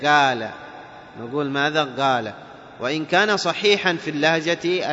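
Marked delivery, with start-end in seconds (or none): 0.0-0.5 "قال" said as gaal, dialect style; colloquial g for qaf. Shown as a demonstration. Teacher warns against dialect, saying "قال" as gaal. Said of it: "ولا نقول كاللهجة الدارجة". 1.5-2.3 "قال" said as gaal; colloquial g for qaf. Shown as a demonstration. Teacher shows the dialect slip, g in "قال". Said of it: "ولا نقول كاللهجة الدارجة".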